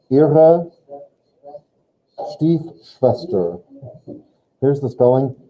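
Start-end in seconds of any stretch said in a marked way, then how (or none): 0.1-3.6 slow demo. Shown as a demonstration.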